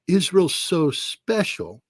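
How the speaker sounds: slow, mock-amazed sarcasm; sarcastic mock awe. Real, not acted. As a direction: gasp in mock wonder. Sarcastic gasp.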